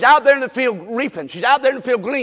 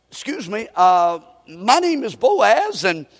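shy suitor. Retold or imitated. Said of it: "he says".

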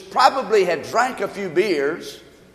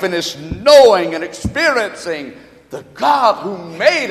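fervent preaching. Real, not acted. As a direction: preach it in sweeping, repeated phrases. Preaches with rising fervour.

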